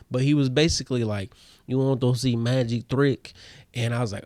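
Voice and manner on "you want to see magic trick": imitating a Russian magician's broken English; Russian accent. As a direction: put on a light Russian accent. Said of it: "that's how he sounded".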